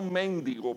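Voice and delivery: "mendigo" wrongly stressed on the first syllable, MEN-digo; wrong stress, méndigo. Shown as a demonstration. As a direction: say "mendigo" as MÉN-di-go, accent on the E. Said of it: "no hay acento en la E".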